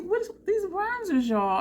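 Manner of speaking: high-pitched, baffled plea; squeaky, exaggerated puzzlement; mock bafflement. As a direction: appeal to viewers in comic disbelief.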